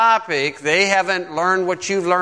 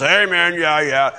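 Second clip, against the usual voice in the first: imitating an over-eager amen corner; excited agreement. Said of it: "gonna jump all excited".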